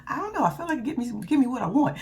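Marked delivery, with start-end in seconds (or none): 0.1-0.4 breathy hushed mock whisper; dramatic wife dodging a job, whispered. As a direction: play helpless in a whisper. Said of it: "I'm dramatic as hell".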